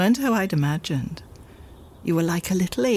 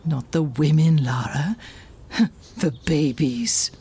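whispered; 3 semitones lower than usual. Acted. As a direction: hush it, amused and tender. Dead mother speaks softly.

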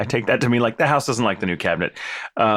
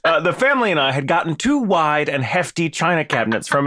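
corrected reading, laughing; 6 semitones higher, 4 dB louder than usual. Shown as a demonstration. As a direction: reread with stress on "two", louder, through laughter. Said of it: "Sorry, that was my fault. I read it wrong".

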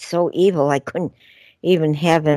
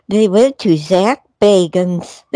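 hiccuping; 5 semitones higher, 4 dB louder than usual. Real, not acted. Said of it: "Now I'm hiccuping".

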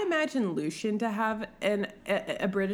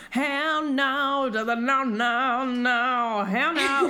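higher, louder comic string of protests; panicked refusal; 4 semitones higher, 4 dB louder, slower than usual. Acted. Bride balking as she walks down the aisle, mock panic. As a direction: hammer out each no, mock-panicked. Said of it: "so Feyre's like".

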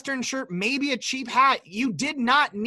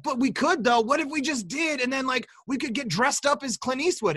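higher, mock-pleading co-host; lightly voiced wheedling friend; imitating co-host; 3 semitones higher than usual. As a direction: pitch the idea like an eager pal, imitated. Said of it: "And yet Cody's like".

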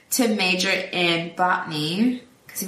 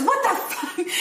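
quoting Steve-O; 14 semitones higher than usual. Retold or imitated. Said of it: "And Steve-O says".

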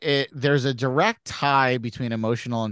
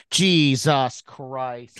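drawn-out muttered curse fading in and out; passing by doppler; much slower than usual. Retold or imitated. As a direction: let it swell and fade like passing by. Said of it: "fade in, fade out".

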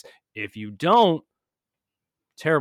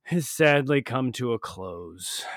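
loud, high, hammed-up grief; dramatic lament; 6 semitones higher, 6 dB louder than usual. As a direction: mourn the season end dramatically. Mock-emotional season farewell.

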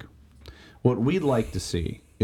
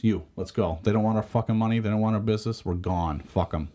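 drill sergeant. Retold or imitated. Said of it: "Like a drill sergeant".

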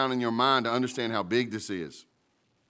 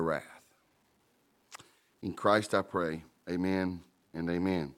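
prayer; 3 semitones lower than usual. Acted. Pastor praying before the sermon, earnest and humble. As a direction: pray humbly over the passage. Reading scripture then praying.

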